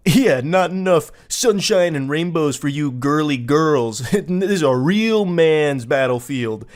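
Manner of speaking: slow, puffed-up tough-guy boast; hammed-up gamer bravado; mock macho gamer. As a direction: swagger through it like a self-declared real man. Mocking the macho gamer texts.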